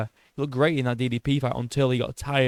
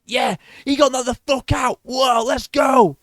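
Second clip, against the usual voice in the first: high, hyped-up imagined cheer; mock celebration; 9 semitones higher, 3 dB louder, slower than usual. Fan imagining celebrating the knockout, high hyped cheering. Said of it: "I thought I'd be, like, celebrating".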